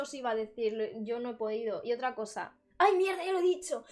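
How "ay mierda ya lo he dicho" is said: loud, higher cry at the slip; startled shout. Real, not acted. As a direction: catch yourself loudly. Slips forbidden word again. (grito de sorpresa al equivocarse)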